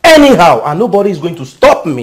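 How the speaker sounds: loud, high taunting yell; defiant shout. Acted. Brother shouting down his brother's wife, loud and defiant. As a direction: shout him down, daring her to stop you.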